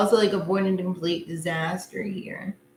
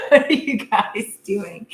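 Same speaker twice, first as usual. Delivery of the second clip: laughing; 4 dB louder, slower than usual. Real, not acted. Laughing at viewers mid-read.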